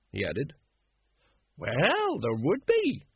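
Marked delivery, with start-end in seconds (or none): 1.5-3.0 high, hesitant woman; uncertain. A narrator's reading. A woman agrees with the monarchist, uncertainly. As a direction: agree without being sure, pitched high. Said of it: "said the woman uncertainly".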